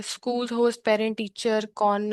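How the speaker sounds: very slow halting "schools host parent teacher", stalling at कौन; stumbling read. Shown as a demonstration. Teacher showing students an unprepared stumble, very slow and halting. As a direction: read it unprepared, getting stuck mid-line. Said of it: "On the spot करेंगे तो हम ऐसे करेंगे".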